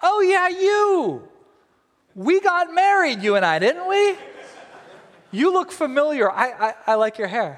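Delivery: comic lovestruck gushing; smitten king. Acted. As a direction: play a besotted king, hammed up and high. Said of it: "he's really smitten with her".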